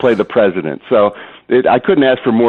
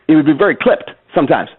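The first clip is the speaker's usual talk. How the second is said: Obama impression; 5 semitones higher than usual. Shown as a demonstration. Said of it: "President Obama would talk like this".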